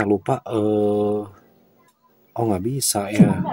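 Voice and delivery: talking round a cigarette; slow words past a cigarette; cigarette in mouth. Real, not acted. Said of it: "bikin kontennya sambil ngerokok".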